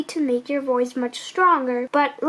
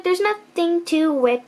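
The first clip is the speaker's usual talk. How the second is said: plain reading voice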